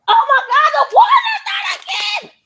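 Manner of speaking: high loud shriek of disbelief; shocked shout. Real, not acted. Mother finding her son poured water on the iPad, shocked shout. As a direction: scream in real shock.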